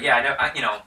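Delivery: a grand baron introducing himself; hammed-up aristocrat with a laugh. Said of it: "so he's like".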